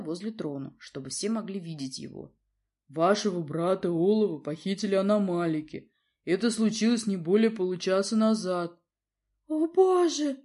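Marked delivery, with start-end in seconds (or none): 2.9-8.8 formal, grave report; grave bear guard. A narrator's reading. Guard bear reports the kidnapping, grave. 9.5-10.4 much higher, louder shocked cry. A narrator's reading. Princess cries out at the news, alarmed. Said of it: "выкрикнула львица".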